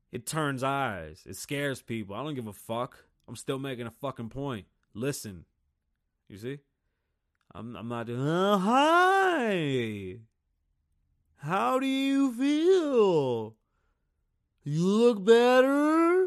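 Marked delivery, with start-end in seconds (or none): 8.2-16.2 booming, shrill, high-pitched, slow, drawn-out words. Speaker acts out greeting their grandma, talking loud and slow. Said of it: "talking to my grandma really loud and slow".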